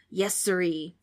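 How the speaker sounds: ghost playing innocent; a lightly voiced ghost acting casual. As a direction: pretend nothing is wrong, breezy. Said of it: "acting like nothing was wrong".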